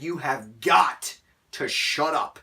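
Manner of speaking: slow, deliberate scolding; stern retold warning. Scolding the noisy teen in the cinema, slow stern warning. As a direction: spell out each word to silence him. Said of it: "I was just so angry".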